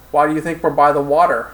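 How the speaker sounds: lightly acted sensual Russian accent; Russian-accented flirtation, understated. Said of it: "answered in a soft, sensual Russian accent".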